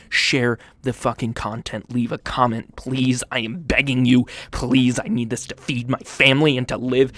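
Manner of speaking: loud pleading for likes; hammed-up desperate plea; mock desperate begging. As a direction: beg as if your life depends on it. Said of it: "I'm begging you".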